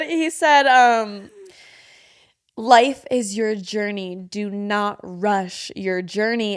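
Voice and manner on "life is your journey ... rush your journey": quoting the instructor. Retold or imitated.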